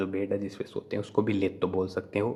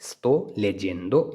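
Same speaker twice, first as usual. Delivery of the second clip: slow model repeat; much slower than usual. Shown as a demonstration. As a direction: say Sto leggendo again slowly. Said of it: "तो उसको हम बोलेंगे".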